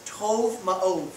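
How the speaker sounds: tov ma'ov said slowly in Hebrew; Hebrew phrase. Shown as a demonstration. Pastor teaching the congregation a Hebrew word, said slowly. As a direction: draw out tov ma'ov, falling on tov. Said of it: "that's a Hebrew phrase that means perfect".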